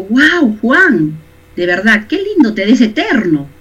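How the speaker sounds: butter up Juan with exaggerated delight; a hint of over-sweet flattery; mock flattering compliment. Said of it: "Es un ejemplo".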